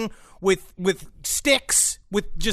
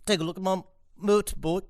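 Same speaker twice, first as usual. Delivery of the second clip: mock Yorkshire accent, a bit softer; practising a bad Yorkshire accent; 5 dB quieter, faster than usual. Shown as a demonstration. Practising a line for friends, in a mock Yorkshire accent. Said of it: "the sentence that you wanna practice".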